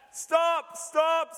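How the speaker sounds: high shouted squeal; a cat's desperate high-pitched squeal. Acted. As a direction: squeal it like a panicked cat. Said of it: "squealed the cat".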